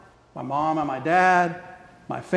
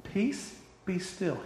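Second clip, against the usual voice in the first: hushed command; 9 dB quieter, slower than usual. Retold or imitated. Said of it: "speaking to the peace in that storm".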